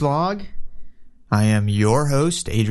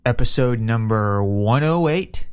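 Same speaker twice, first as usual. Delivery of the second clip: announcer intro. Acted. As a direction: announce the show like a radio host. Podcast opening announcement.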